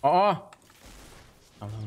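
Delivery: usual speaking voice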